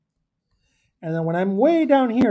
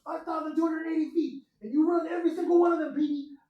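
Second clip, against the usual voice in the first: much higher, fast hammed-up coach shout; coach yelling; 9 semitones higher, 6 dB quieter than usual. Teacher acting the coach, mock coach shouting at Petey. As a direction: bark it like a drill coach.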